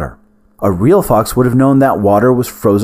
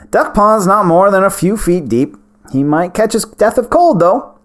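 put-on old wizard voice; 9 semitones higher than usual. Smallbone voiced by narrator.

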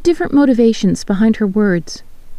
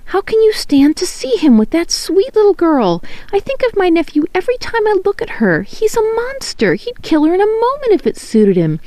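much higher, strained near tears; raw, tearful; 10 semitones higher than usual. A narrator's reading. Helen begs Clytemnestra to protect the girl, raw and high. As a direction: plead through a raw, cried-out voice. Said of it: "her voice raw as if she'd been crying".

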